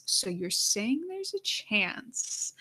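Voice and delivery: lightly voiced movie goofball, drawn out slowly; a slow, stretched-out hint of a dopey comedy character; Dumb and Dumber. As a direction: draw it out like a slow-witted hopeful. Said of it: "in my Dumb and Dumber voice".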